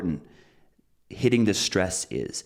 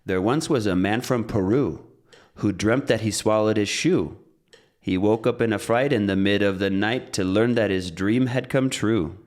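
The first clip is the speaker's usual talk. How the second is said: bouncy metronome-timed verse with unstressed words squeezed between beats; rhythmic limerick; 3 dB louder than usual. Shown as a demonstration. Teacher demonstrates a limerick to the metronome, rhythmic recital. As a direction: recite on a steady beat, stresses landing evenly. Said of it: "Let's get the metronome back".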